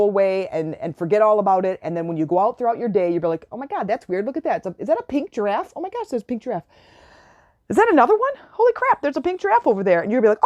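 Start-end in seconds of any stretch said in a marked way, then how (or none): 3.5-6.6 softer, wondering discovery; as if spotting something unbelievable; hushed amazement. Pretend. A listener spotting a pink giraffe, softly amazed. 7.7-10.0 high, loud thrilled exclaim; excited squeal. Pretend. Someone seeing pink giraffes everywhere, high and thrilled.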